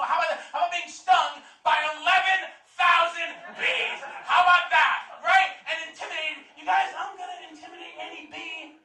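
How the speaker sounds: comic outrage shouted at the crowd; mock-outraged rant. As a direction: shout it like the point is obvious. Ranting about bee stings.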